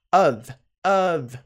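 "of" with a voiced V ending; pronunciation model. Shown as a demonstration. Teacher models the word of, careful pronunciation. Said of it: "pronúncia não é of".

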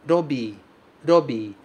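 "robi." with a tapped R and a long i; Japanese robii. Shown as a demonstration. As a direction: model "robi." with the flap and a long bi. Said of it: "Cuidado novamente com o R do começo". ("robi" com R batido e i longo)

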